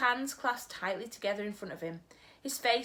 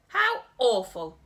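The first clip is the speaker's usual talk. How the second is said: louder, slow shocked exclamation; cried out; 3 semitones higher, 9 dB louder, slower than usual. Acted. Sophie horrified by screaming plants, crying out. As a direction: gasp it out in horror. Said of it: "Sophie cried".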